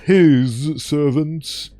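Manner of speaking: a hint of a refined creature; lightly voiced posh creature. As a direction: speak as a calm, superior ancient beast. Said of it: "six eight two sounds like posh".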